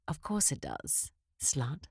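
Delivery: whispered taunt. Acted. Dominatrix taunt, dropped whisper.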